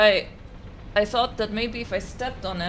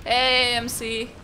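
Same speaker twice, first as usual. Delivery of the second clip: calling out; 5 semitones higher, 5 dB louder, slower than usual. Real, not acted. Calling out to teammate.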